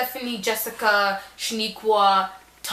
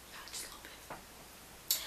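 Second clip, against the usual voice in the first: breathy little aside, slowed down; mock modest whisper; 20 dB quieter, slower than usual. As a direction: whisper it slowly like a humble brag. Modest reply to boys.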